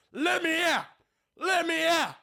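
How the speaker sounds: very high, squeaky plea; pleading possessed demon. Acted. Demon in a picture frame begging out, squeaky plea.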